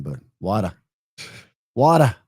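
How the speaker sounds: imitated New York "Wada", final r dropped; New York accent. Teasing New York friends over water, mimicked New York accent. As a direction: mimic New Yorkers' "Wada", almost Boston. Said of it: "sound like I'm from Boston".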